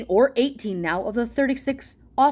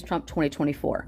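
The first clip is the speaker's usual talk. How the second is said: lower, softer dopey slogan; mock dumb supporter; 7 semitones lower, 5 dB quieter than usual. Vlogger mocking what Trump voters parrot back, low and dopey. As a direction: drone it like a brainless chant. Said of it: "all you're gonna say is".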